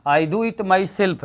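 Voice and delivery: slow classroom read-out; slow dictation. Shown as a demonstration. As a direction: do stressed, very slow. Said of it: "है यहाँ पर, ठीक".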